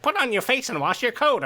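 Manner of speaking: high-pitched, theatrical character voice; Papyrus. Acted. Podcaster quoting how Papyrus would talk, high character impression. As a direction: proclaim it in a put-on, high voice. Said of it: "I can imagine Papyrus saying".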